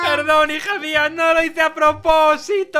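hammed-up apology. Hammed apology to injured daughter.

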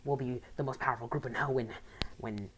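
lightly voiced scheming villain boss; greedy, gloating, a hint of menace; a touch of a smug crime boss; villain leader. Reads Maxie's villain dialogue.

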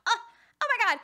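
high, loud upset squeal; high outraged oh my God; mock shriek. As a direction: shriek like a splashed bougie girl. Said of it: "I'm like".

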